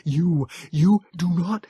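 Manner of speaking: slow, high, halting creature voice; frail Morlock pleading, halting. A narrator's reading. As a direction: stumble over the words, urgent. Morlock figure.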